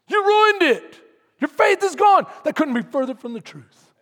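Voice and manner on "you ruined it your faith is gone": a hint of a loud accusing voice; enemy's taunt. Preacher quoting the enemy's accusation, loud mock taunt. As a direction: jab it like the accuser. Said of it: "what the enemy says".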